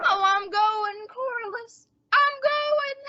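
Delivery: slow, mock-tragic dying moan; fake deathbed voice.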